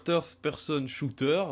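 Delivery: a clumsy English accent on Third Person Shooter; self-mocked English accent. Real, not acted. Host explaining TPS to listeners, in a self-mocked English accent. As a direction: say it in English, admitting the accent is bad. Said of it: "avec mon accent anglais de merde".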